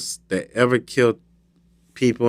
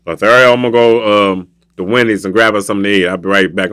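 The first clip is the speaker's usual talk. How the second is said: lower, casual voice of a manager; Scott; 5 semitones lower, faster than usual. Acted. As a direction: drop the pitch for a matter-of-fact boss. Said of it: "My manager, Scott, be like".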